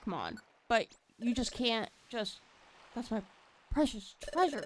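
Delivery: lightly voiced, frantic partner Pokemon; desperate to get the treasure back; panicked Riley. Riley panicking over stolen treasure.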